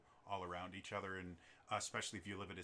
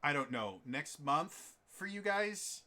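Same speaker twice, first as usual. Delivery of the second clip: hesitant, then higher, louder and drawn-out asking; puzzled, stretched-out question; unsure scheduling question; 4 semitones higher, 4 dB louder, slower than usual. Retold or imitated. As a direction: guess wildly at the time, rising into a question. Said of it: "I'll be like".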